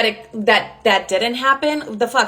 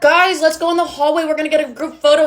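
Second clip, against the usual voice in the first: higher, chirpy call to friends; fake-casual rallying; 4 semitones higher than usual. Calling the girls out for a group photo, fake-casual rallying. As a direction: round up the group as if nothing's wrong.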